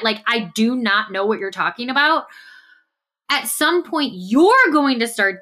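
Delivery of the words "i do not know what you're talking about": each word given its weight, sincerely; mean it this time, earnestly puzzled; an honest, puzzled denial; genuine denial. Retold or imitated. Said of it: "genuinely will say that".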